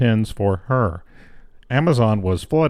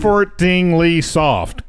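slow careful; 5 semitones higher, slower than usual. Shown as a demonstration. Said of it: "I can't say it".

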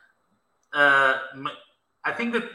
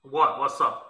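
in a cave; 2 semitones lower, slower than usual. Real, not acted. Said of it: "you sound like you're in a cave".

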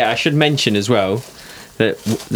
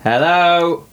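bright, higher polite hello for the phone; telephone voice; 7 semitones higher, 3 dB louder than usual. Acted. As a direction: put on a polite phone greeting. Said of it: "do you have to put on my telephone, telephone voice?".

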